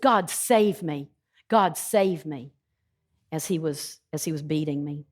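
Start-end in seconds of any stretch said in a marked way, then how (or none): 0.0-2.5 mild mock cry out. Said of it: "crying out to God".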